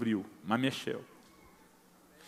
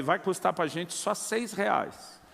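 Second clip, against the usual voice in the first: deadpan joke; 5 dB quieter, much slower than usual. Retold or imitated. Joking punchline to wife.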